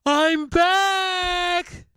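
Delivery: mystic persona entrance. Acted. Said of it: "It's Barstradamus".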